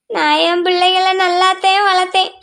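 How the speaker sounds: crying. Acted. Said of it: "அத்தை, அழுகாதீங்க".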